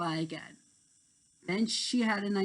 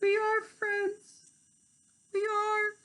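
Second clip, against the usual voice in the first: high, slow, gentle reassurance; Terrence's voice; slower than usual. Acted. Terrence reassuring Tink, slow gentle voice. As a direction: reassure her slowly.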